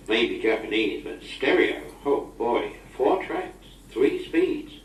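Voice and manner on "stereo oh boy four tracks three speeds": higher, rising wonder at each feature; excited admiration. Real, not acted. Marvelling at Fred's new tape recorder, excitedly. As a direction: count off the features, more impressed each time.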